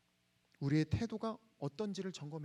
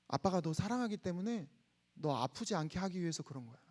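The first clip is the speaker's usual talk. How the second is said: tender reassurance; 5 semitones lower, 6 dB quieter than usual. Retold or imitated. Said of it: "제가 그 얘기를 해줬어요".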